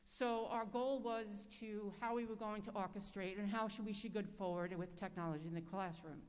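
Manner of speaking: speaking through a face mask, muffled. Real, not acted. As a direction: talk with a mask over the mouth. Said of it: "it's very hard to talk with this mask on".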